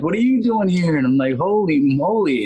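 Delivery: high-pitched echo of astonishment; retold high, incredulous greeting; surprised reunion. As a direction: act out a friend's amazed double-take. Friend echoes surprise at reunion.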